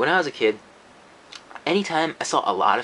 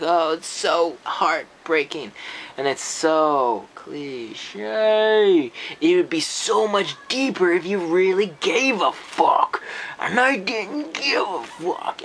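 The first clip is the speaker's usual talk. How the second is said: mock sentimental; 2 semitones higher, much slower than usual. Mocking sentimental ending.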